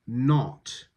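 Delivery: "not" with a forward, lip-rounded British o. Shown as a demonstration. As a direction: round the lips for the vowel in "not". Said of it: "that needs more rounding".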